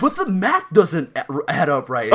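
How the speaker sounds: a light Shoobs-like whine; Shoobs impression. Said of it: "He just does this really Shoob-like".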